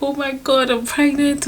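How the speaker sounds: joyful exclaim. Retold or imitated. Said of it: "I was like".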